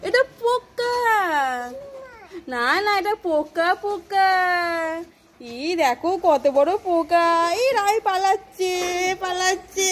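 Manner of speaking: drawn-out, sing-song mock fright; playful alarm. Parent showing Rai a big bug, playful alarm. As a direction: tease with stretched-out cries of alarm.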